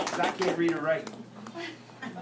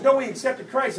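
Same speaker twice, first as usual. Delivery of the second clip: raised voice on "No, he accepted Christ"; insistent; 4 semitones higher, 3 dB louder than usual. Retold or imitated. Friend phoning the doubter back, insistent correction. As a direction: press the point against disbelief. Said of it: "He goes".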